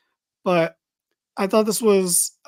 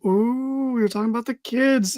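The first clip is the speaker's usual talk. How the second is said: mock scandalised reaction; 4 semitones higher than usual. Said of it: "got the whole ... kinda reaction".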